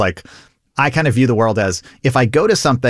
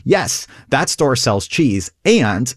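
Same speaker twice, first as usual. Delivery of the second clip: emphatic agreement; much slower than usual. Shown as a demonstration. Improv demo of agreeing, building.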